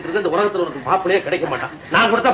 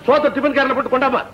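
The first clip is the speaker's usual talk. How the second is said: impatient calling out; 4 semitones higher than usual. Acted. Father calling out impatiently to daughter.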